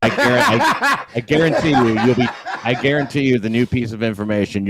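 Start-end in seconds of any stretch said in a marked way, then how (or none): 0.0-2.3 high giggles breaking words; laughing at his own promise; laughing through words. Real, not acted. Caller laughing while promising the hosts news.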